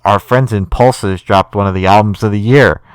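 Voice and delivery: flat monotone delivery; deadpan, no excitement. Real, not acted. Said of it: "I said that in a really monotone voice".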